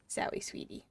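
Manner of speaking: whispered apology to the cat; a soft whisper to the kitty. Real, not acted. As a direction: breathe it to her pet.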